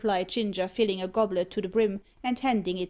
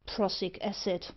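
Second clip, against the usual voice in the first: gruff; 3 dB quieter than usual. Acted. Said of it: "replied Mister Thorneycroft gruffly".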